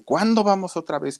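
put-on high whiny child's plea; nagging child. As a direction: pester mom like a small boy. Boy nagging his mother.

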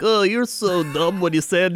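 lightly mocking the co-host's way of talking; mocking imitation. Co-host mimicked calling the other dumb, lightly mocking. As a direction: tease with a mimicked put-down. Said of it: "Now you sound like me. You're like".

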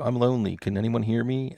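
plaintive little plea, put on; mock lonely plea. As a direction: call out as if lonely, lightly acted. Voices his show's lonely plea.

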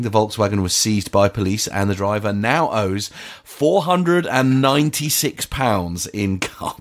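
measured read-aloud newspaper report; news story read. Acted. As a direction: read the report out, stretching out the key figures.

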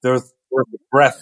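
"There's, there's the breath." with a lisp like Sylvester the cat; front teeth lisp. Shown as a demonstration. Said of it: "Sylvester the cat".

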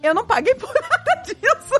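high, laughing mock panic; panicked grandfather. Grandpa, pale, tells his bride he paid nothing, in mock panic. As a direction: blurt it like a groom caught off guard. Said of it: "em pânico, pálido".

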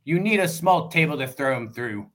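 lightly put-on Scottish accent; a rough, half-hearted Scottish brogue. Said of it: "I'll do my best Scottish accent".

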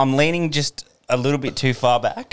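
slurry stoned talk. Real, not acted. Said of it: "I'm so stoned right now".

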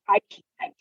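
high frantic panic about writing fast enough. Retold or imitated. Author recalling a flood of ideas, high frantic squeal. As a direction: squeal it out like you're overwhelmed. Frantic self-quote under pressure.

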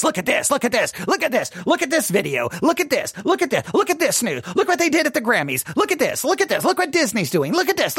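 rapid-fire, frantic finger-pointing; mock condemning rant. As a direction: pile up the accusations breathlessly fast, rising in pitch. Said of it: "just go around condemning everything".

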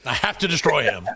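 I have to destroy him said through a laugh; laughing vow. Shown as a demonstration. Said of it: "repeats vow, second time laughing".

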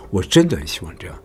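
真 gently accented, not dragged; light tap on 真. Shown as a demonstration. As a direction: give 真 a short nod of stress. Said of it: "不用太重".

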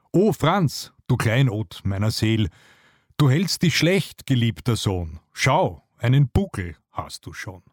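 lightly voiced fretting mother with lifted exclamations; camel mother. Frau Kamel scolds her son's posture, lightly acted motherly reproach. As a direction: gently chide a beloved son, pitch jumping on the reproaches.

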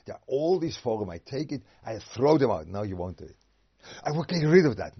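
hammed-up defiant vow; mock bold resolve. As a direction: act out the grand decision. Acted resolve to throw out.

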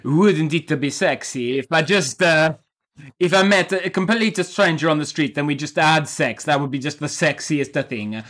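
put-on generic Italian accent, slowed down; hammy Italian accent, playing a film director. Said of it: "I'm gonna do a generic Italian accent".

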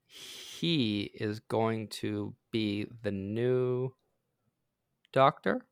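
very slow, pausing before Doctor; slow dramatic reveal. Shown as a demonstration. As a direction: stretch it out for effect. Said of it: "dramatic announcement slowed".

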